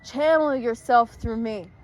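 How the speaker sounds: loud, slow invocation; summoning a spirit. Real, not acted. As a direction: draw it out like a séance command.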